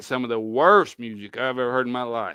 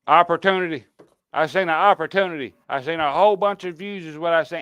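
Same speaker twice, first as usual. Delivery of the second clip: mock greedy YouTuber; 4 semitones higher, 4 dB louder than usual. Mocking Kansas Rebel's greed.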